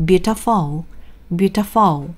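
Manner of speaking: beautiful with the final "ful" punched; teacher showing wrong final-syllable stress; stress on third vowel. Shown as a demonstration. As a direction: put the weight on the last syllable of beautiful. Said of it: "세 번째 모음인 어에 붙잖아요".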